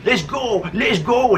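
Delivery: half-strength retold shout; mild mock yell. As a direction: imitate a bully yelling for a rematch. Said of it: "he's yelling and screaming".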